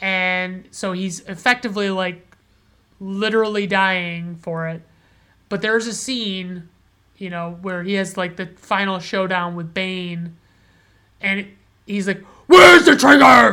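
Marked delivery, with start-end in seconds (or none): 12.5-13.5 very loud, high, heroic shout. Describing a film's final showdown with Bane, the speaker does a loud impression of the hero. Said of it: "that was probably a little loud in the old microphone".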